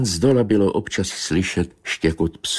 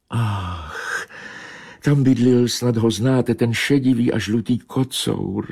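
higher, mournful she-cat lament; plaintive meow; 6 semitones higher than usual. Acted. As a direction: mew it out in grief for the lost tomcat. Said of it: "zamňoukala žalostně kočka". (žalostně mňoukající kočka, vyšším hlasem)

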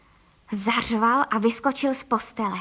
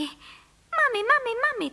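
put-on much higher chirping child's voice; chirping little boy; 11 semitones higher, slower than usual. A narrator's reading. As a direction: chirp like a tiny bird-child calling mum. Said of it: "cvrlikal Filip". (vysoké cvrlikání malého chlapce)

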